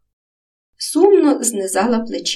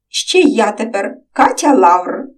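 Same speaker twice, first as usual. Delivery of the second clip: slow, grand self-introduction; artistically; 2 semitones higher, 6 dB louder than usual. Acted. Girl playfully presents her new name to Romchyk, theatrical. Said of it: "артистично промовила дівчинка".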